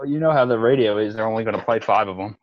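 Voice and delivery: boomer impression. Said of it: "That was, that was my boomer impression".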